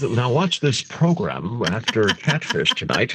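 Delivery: slow, grand mock announcer. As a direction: announce the next show like BBC. Mock BBC announcer intro.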